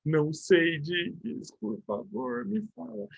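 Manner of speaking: quiet mock plea from a student. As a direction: play a clueless student begging the teacher to explain. Teacher voices a pleading student.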